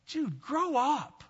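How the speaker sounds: mock scold. Mock scolding of immature person.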